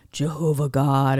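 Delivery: mock church answer. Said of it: "you'd have to say".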